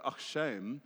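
light demo of pitying sympathy, rising at the end; sympathetic South African usage. Shown as a demonstration. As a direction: show how a South African commiserates. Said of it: "like, in South Africa".

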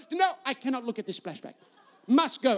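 imitated Bulgarian-accented refusal; wife's stubborn Bulgarian-accented verdict. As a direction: dig in with a mock Bulgarian accent. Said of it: "in her little Bulgarian accent".

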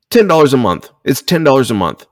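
incredulous emphatic rant; exasperated insistence. Real, not acted. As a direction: drive home how little it is. Ranting at stingy Texas fans.

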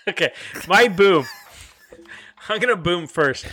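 giggling through the words; can't keep a straight face; laughing while talking. Real, not acted. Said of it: "Can you two control yourself".

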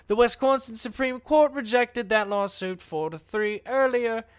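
a light British-Australian newscaster read; a hint of a British-Australian news anchor; British newscaster accent. Shown as a demonstration. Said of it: "a mixture of British and Australian".

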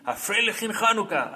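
the woman greets the rabbi in Ashkenazi style; Ashkenazi accent. Retold or imitated. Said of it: "versión ashkenazí". (acento asquenazí, lento y agudo)

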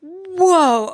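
high, loud amazed whoa; be blown away. Acted. Mock amazement.

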